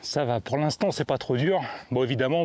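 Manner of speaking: out of breath on a climb; puffing. Real, not acted. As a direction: talk while puffing uphill. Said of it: "vous m'entendez souffler". (essoufflé en montée)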